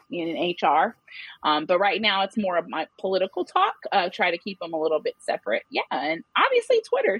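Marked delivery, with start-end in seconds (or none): 6.4-7.2 covered by a bleep tone; censored with a bleep. Real, not acted. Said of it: "I'm sorry about the bleeping".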